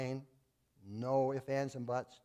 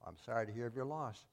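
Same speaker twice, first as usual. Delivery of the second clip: compassionate pastor; 3 semitones lower, 5 dB quieter than usual. Retold or imitated. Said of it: "in compassion".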